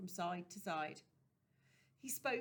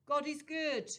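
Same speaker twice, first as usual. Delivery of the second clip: gentle preacher; 8 semitones higher, 9 dB louder than usual. Acted. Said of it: "said the doctor".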